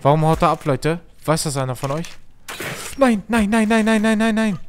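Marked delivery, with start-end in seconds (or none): 3.0-4.6 high, loud stream of no's; desperate plea to stop; panicked no. Real, not acted. Streamer being shot at, panicked high loud no's. Under attack, about to die.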